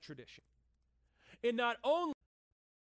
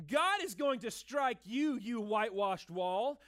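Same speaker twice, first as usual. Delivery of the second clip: slow, louder, biting rebuke; heated retort; 5 dB louder, slower than usual. Acted. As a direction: throw the insult right back at him. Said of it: "Paul kinda throws some words back".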